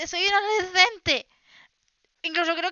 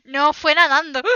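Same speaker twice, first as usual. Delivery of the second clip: laughing sarcasm, louder; 7 dB louder than usual. Real, not acted. Host mocking a silly question, laughing. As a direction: scoff through a laugh.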